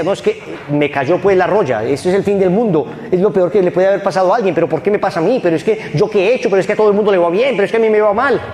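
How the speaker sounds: put-on high, wailing lament of a distraught girl; girl voicing self-pity, rising to a whine; whiny despairing girl. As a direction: complain like the world has ended. Despairing girl's complaint quoted.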